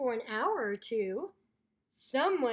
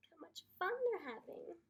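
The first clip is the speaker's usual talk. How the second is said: envious whisper with a sigh; left-out narrator whispering; wistful whisper; 4 semitones higher, 8 dB quieter, faster than usual. Acted. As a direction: sigh it out under the breath.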